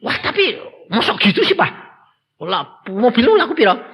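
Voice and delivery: lightly voiced son asking the price. Son questions father.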